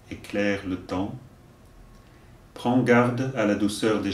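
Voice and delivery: slow, deliberate verse delivery; poem recitation. Acted. Teacher giving verses for learners to repeat, measured recitation. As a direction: recite line by line, leaving room to repeat.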